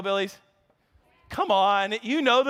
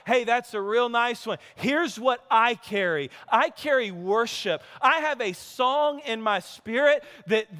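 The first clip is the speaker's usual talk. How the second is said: defiant reply. Pretend. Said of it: "how do I reply?".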